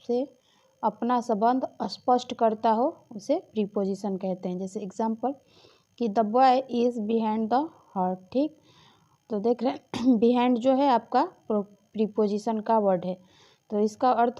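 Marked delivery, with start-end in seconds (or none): 6.1-8.2 slow dictation. Shown as a demonstration. Teacher dictating the example to students, slow and careful. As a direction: read out slowly, word by word.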